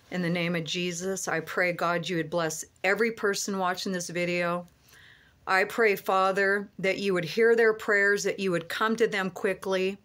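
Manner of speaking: prayer. Acted. Pastor praying blessing over people watching his video, earnest prayer. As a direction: pray over them reverently.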